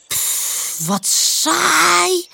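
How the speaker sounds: unvoiced puff, then high bored whine. A narrator's reading. Pip to a friend who will do nothing, bored. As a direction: puff out air and complain. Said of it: "zegt Pip verveeld".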